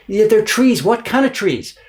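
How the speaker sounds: high, loud teasing quiz; quizzing. Retold or imitated. Papermaker quizzing his guest, high and loud. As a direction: lead him to the answer.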